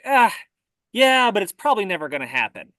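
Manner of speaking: imitating a shrugged-off objection; mildly dismissive. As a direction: lightly voice a dismissive sceptic. Voicing what unwilling people think.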